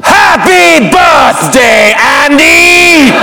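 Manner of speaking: slow, drawn-out villain bellow; huge slow theatrical proclamation; all-out Darth Vader. Acted. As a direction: give it everything as Darth Vader. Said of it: "I give it all I got".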